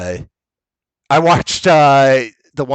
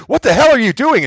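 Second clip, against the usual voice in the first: shocked outburst; 11 semitones higher, faster than usual. Retold or imitated. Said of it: "Gleason's like".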